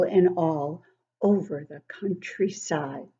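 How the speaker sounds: sing-song poem recital, rising and falling; poem reading. Acted. Grandmother reading a poem to children, sing-song. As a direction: read the verses like a swing moving.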